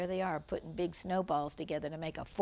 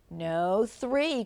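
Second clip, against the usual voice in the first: mild cry; 2 semitones higher, 5 dB louder than usual. Acted. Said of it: "cried Sam".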